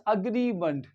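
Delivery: "agreement" as uh-GREE-munt; corrected pronunciation. Shown as a demonstration. Teacher repeats the corrected word, schwa pronunciation. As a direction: say "agreement" with a short schwa first syllable. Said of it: "This is agreement".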